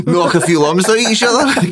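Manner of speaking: lightly put-on English voice, laughing through it; mock English bloke. Cheery English lad offering a sarnie after the match. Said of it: "an English one, I must say".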